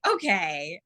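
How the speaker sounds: lightly sarcastic, questioning lift; mild mock agreement with a rising end; sarcastic okay. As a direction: play up a humoring, skeptical okay. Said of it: "use a lot of sarcasm and humor".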